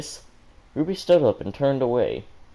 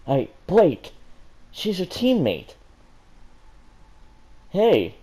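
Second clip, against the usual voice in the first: loud, high call to the page; yelling at character; 8 semitones higher, 3 dB louder, slower than usual. Real, not acted. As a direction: shout to get her attention.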